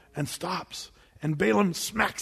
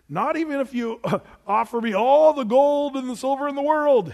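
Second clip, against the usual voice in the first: raised, higher, emphatic refusal; loud refusal; 6 semitones higher, 6 dB louder than usual. Retold or imitated. Balaam refusing the king's messengers, loud and emphatic.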